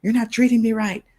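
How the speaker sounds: high, loud complaint at the family; yelling. Retold or imitated. Someone yelling at their family about how they're treated, loud and high. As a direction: yell it out, fed up. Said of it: "yell at them and say".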